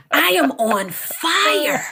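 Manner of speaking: high, slow, laughing through the words; drawn-out giggly line. Real, not acted. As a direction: laugh out the confession. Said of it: "I'm on fire".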